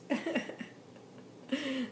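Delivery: short spontaneous laugh; amused laugh. Real, not acted. Reader amused that the guide means fights, short laugh. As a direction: laugh at the polite wording. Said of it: "I'm laughing because that means fights".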